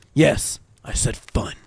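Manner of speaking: slow, breathy deadpan; deadpan insistence. Acted. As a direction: drag it out, daring them to argue. Trapper insisting on the word fun.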